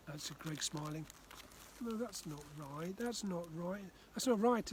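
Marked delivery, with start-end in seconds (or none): 1.8-4.7 put-on child's frustration rising with each repeat; getting frustrated. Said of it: "getting frustrated".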